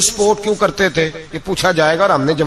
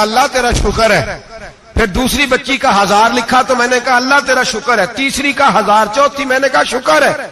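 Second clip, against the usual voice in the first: retold thanks, climbing higher each time; mounting gratitude; 5 semitones higher than usual. Widow thanking the caliph as each stipend is written, mounting gratitude. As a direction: build the thankfulness step by step.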